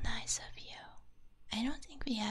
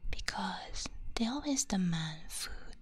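ASMR whisper. Real, not acted. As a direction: whisper gently as if not to wake anyone.

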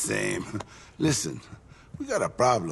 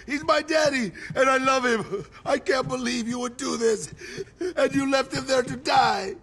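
furious shout; 4 semitones higher than usual. Acted. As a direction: tear into them at full volume. Boss screams at his men.

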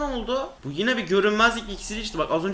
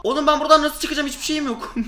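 laughing panic; 6 semitones higher than usual. Real, not acted.

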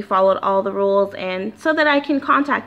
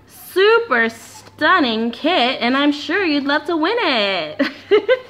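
game show host voice; 3 semitones higher, slower than usual. Acted. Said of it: "Don't you love my, like, game show host voice?".

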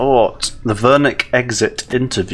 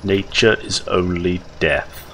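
Herzog impression. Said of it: "I can't do his accent".

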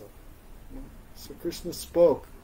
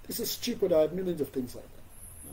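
dismissive parent; 3 dB quieter than usual. Retold or imitated. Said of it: "What do the parents do?".

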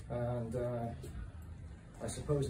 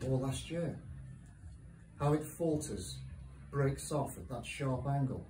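measured poetry recital with long pauses between lines; poem reading. Acted. Poet reads a short poem to a live audience, measured recital. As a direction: read it line by line, letting each hang.

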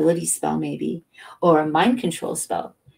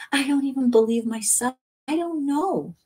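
self-doubting; 9 semitones higher than usual. A narrator's reading. Narrator doubting his own mind.

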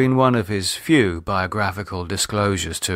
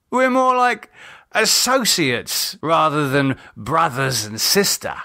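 bitter sneer; 10 semitones higher than usual. Acted. David bitter and drunk.

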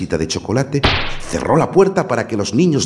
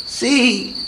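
put-on unconvinced girl. A narrator's reading. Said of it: "no muy convencida".

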